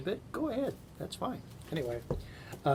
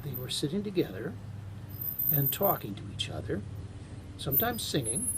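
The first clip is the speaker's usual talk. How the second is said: story narration. A narrator's reading. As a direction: read it like a bedtime tale. Reads a Carl Sandburg story aloud.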